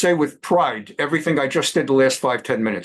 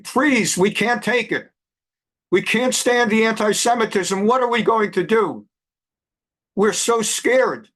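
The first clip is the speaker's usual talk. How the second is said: higher, pleading mock whine; mock whining students; 5 semitones higher than usual. Mocking crying students at Ivy League schools, higher mock whine. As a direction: parody a scared, begging student. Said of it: "are crying, and saying".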